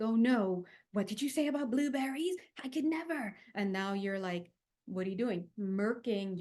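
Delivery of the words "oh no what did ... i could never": mock dramatic refusal. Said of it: "anything more like".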